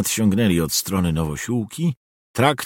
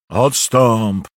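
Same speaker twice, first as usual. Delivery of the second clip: sharp louder snarl to back off; growled command; 7 dB louder than usual. A narrator's reading. Old steward snarling at the begging girl to step back. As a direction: bark her away from the horse. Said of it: "warknął".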